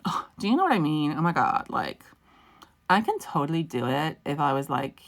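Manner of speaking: put-on American Valley Girl accent; mock American accent. Teasing viewers who find her accent hilarious, mock American accent. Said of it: "your accent is hilarious to Americans".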